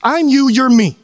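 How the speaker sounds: lightly acted Jesus, insisting earnestly; Jesus speaking emphatically. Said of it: "And Jesus says".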